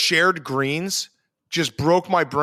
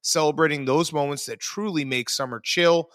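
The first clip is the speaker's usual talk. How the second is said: brisk, upbeat sponsor read, quick on the fine print; 3 semitones lower than usual. Acted. Host reading the Coors Light ad to listeners, upbeat ad read. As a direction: sell it like a radio spot.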